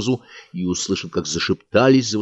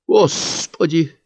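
higher, very slow anguished cry; a woman gasping out to God; 9 semitones higher, much slower than usual. Acted. A woman cries out before fainting, slow and pained. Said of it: "прокричала какая-то женщина".

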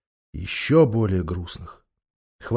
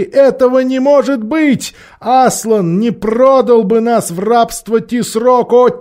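alarmed beasts; 12 semitones higher, 9 dB louder, slower than usual. Acted.

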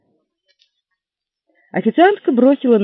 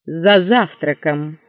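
slow then louder outraged; husband indignant at his wife; 4 dB louder, slower than usual. Acted. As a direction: bristle with jealousy. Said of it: "возмущённо заявило лицо".

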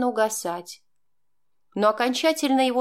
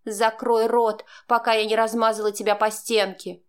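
threatening. Acted. Heated quarrel with stepdaughter.

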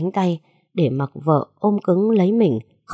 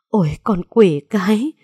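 shocked curse; 3 semitones higher, 4 dB louder than usual. Acted. Mother hears who pushed her.

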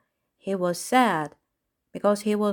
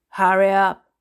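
loud, furious command; furious shout; 7 dB louder than usual. A narrator's reading. Clown rushes the birds along, furiously shouting. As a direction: shout it out in fury. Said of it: "the furious clown shouted".

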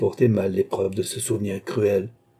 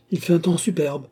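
higher-pitched, delighted cry; joyful exclamation; 7 semitones higher than usual. A narrator's reading. Queen delighted by the fine weather, joyful. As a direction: exclaim it with a burst of joy. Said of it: "avec un mouvement de joie".

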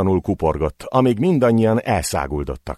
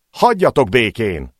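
frightened yell; 4 semitones higher, 4 dB louder than usual. Acted. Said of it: "Félelmében úgy kiabált, mint egy nő".

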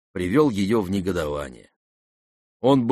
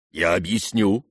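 usual speaking voice

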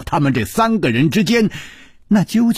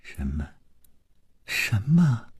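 higher, stammering, shocked questions; stunned dying woman; 8 semitones higher than usual. Acted. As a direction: gasp out the questions in disbelief.

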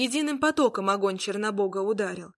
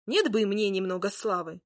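grumbling. Acted. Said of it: "проворчал Змеяр".

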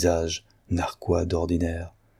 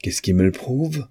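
higher, challenging exclamation; crying out; 6 semitones higher than usual. A narrator's reading. Louis disputing the handwriting, crying out in challenge. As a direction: fire the question back, pitched up. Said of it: "s'écria Louis".

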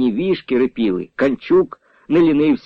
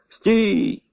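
restrained call; 8 semitones higher than usual. A narrator's reading. Leader halting the caravan, a restrained high call. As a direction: halt the wagons with a contained shout. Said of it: "неголосно вигукнув отаман".

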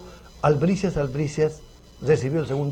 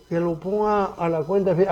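higher, lightly put-on voice; imitating Fidel's followers; 4 semitones higher than usual. Beardless guest copies the diners to the maître d', light imitation. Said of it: "agarrándome la quijada".

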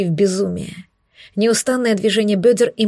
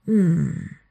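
low hum moan; 4 semitones lower, 3 dB quieter than usual. A narrator's reading. Narrated lovemaking, moan.

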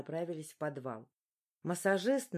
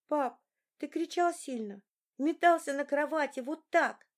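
put-on higher, louder boy voice; high excited boy; 8 semitones higher, 5 dB louder than usual. A narrator's reading. Young son telling his father how he thrashed in his sleep. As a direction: tell it like an excited small boy.

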